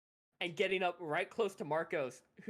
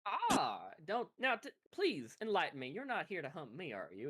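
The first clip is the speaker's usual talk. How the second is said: lightly drawled southern gentleman; courteous hunter with a southern accent. Acted. Bounty hunter asks if he is being hunted, southern accent. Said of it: "his deep southern accent".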